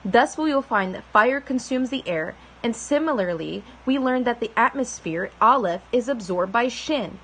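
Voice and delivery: formal reading aloud of a holy book; scripture reading. Acted. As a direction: read the text like a solemn lesson. Reads the sacred text aloud.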